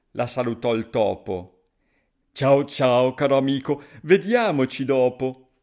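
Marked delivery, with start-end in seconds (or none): 2.3-5.5 louder, hurried goodbye; a bird making excuses and bolting; hasty owl. Acted. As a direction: owl fleeing the gruffalo, louder and rushed. Owl flees hastily.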